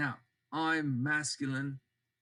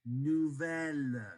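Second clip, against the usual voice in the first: slow feminine form; 2 semitones lower, much slower than usual. Shown as a demonstration.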